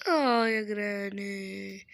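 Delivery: slow stretched "اه" after a fright; drawn-out startled groan. Real, not acted. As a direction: let the fright drag out. Jump scare by Granny. (آهة خضة ممطوطة)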